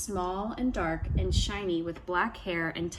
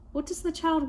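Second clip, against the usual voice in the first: trickster tale voices; 8 semitones higher than usual. A narrator's reading. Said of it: "asked the elders".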